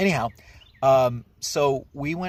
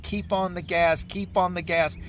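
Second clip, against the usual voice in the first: higher, urgent call to keep going; urgent coaching; 7 semitones higher than usual. Retold or imitated. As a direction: push her on over the sputtering engine, pitched up. Urging daughter while truck sputters.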